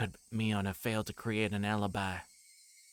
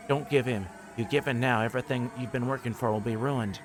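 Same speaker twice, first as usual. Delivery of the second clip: urgent shout; 3 semitones higher, 4 dB louder than usual. Acted. Shouting encouragement at Satoshi.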